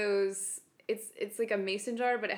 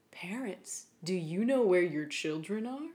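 sing-song store PA announcement; like a bored clerk on the store intercom; store announcer. Retold or imitated. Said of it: "the intonation is really great".

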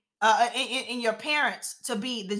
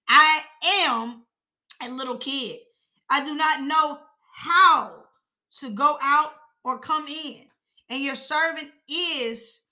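"I am" and "how" punched higher, "is" drawn out; deliberate verse reading with stressed, stretched "is"; emphatic reading; 4 semitones higher than usual. Acted. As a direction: lean hard on "am", "how" and "is". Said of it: "he put emphasis on it".

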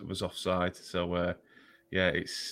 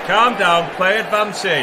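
pleading with the referee; 9 semitones higher, 7 dB louder, slower than usual. Acted. Shouting at the ref in jingle.

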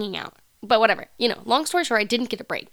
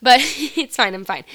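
blocked nose from crying; congested, stuffy voice; 8 dB louder than usual. Real, not acted. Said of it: "that's why I sound all stuffy".

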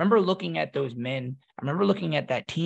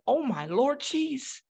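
exhausted groan; 9 semitones higher than usual. Retold or imitated. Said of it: "And I was like".

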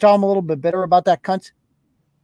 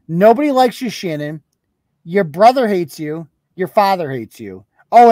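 swearing tirade. Real, not acted. Insulting Shannon on stream.

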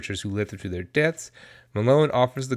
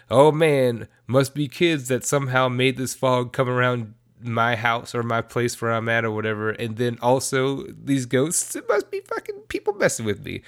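mock dumb guy. Weatherman opening the door to the ghost fog, mock clueless. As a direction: play him clueless and sure of himself.

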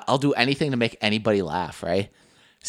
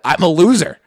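louder, laughing through it; laughing mock answer; 5 semitones higher, 6 dB louder than usual. Teasing friend quoting him, laughing. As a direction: laugh out the confession. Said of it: "You're like".

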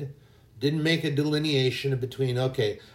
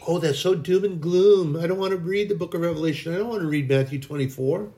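whiny imitation of a reluctant reader, a touch higher; mock complainer; 4 semitones higher than usual. Preacher mocks the churchgoers who avoid Revelation, whiny. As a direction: mimic the grumbler who shuns Revelation.

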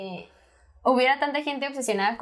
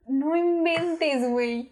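disbelief; 3 semitones higher, much slower than usual. Retold or imitated. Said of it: "Y yo de".

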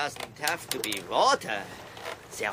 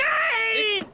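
high screamed denial; desperate, drawn-out shout; panicked refusal; 4 dB louder than usual. Acted. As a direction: scream it out against the verdict. Refuses the losing coin.

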